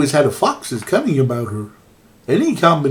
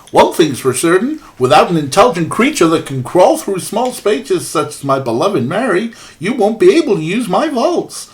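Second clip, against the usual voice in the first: put-on Canadian accent; 4 semitones higher than usual. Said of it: "I'm trying to do a very bad Canadian accent".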